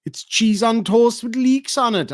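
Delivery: high-pitched retold explanation; imitated café lady. Café lady explaining Welsh rarebit, high imitated voice. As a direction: put on the helpful lady, pitched well up.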